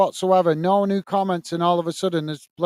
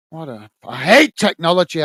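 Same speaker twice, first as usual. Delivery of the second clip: louder fed-up outburst; real annoyance; 6 dB louder than usual. Real, not acted. Streamer annoyed at broken chat, louder outburst. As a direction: snap at the technology.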